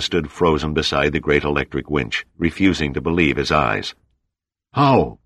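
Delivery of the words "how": shouting over storm. Acted. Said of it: "he shouted".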